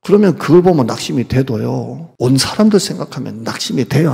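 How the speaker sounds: normal talking voice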